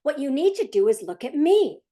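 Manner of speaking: even, steady parent voice giving an order; calm parent instruction. Shown as a demonstration. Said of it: "Let's give you an example".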